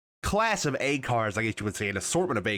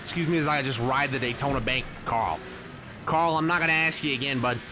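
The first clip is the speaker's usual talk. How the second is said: calm turning angry. Real, not acted. Racer keeps scolding Carl Edwards.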